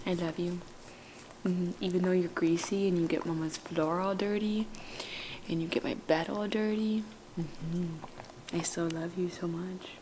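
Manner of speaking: soft whispered love to the dog; tender whisper. Real, not acted. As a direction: hush it into her fur.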